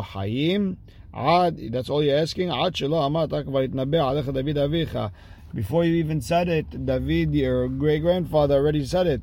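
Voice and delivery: that's all you want? lightly voiced; incredulous reply.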